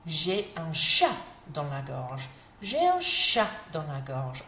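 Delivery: a hint of a scratchy throat; mildly croaky. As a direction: sound like a tickle in the throat. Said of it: "tickly throat all day".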